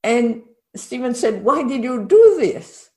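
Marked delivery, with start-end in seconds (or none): 1.4-2.9 louder, mock-startled question; puzzled question. Companion asking about the sudden jump, acted puzzlement. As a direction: imitate a baffled companion asking for a reason.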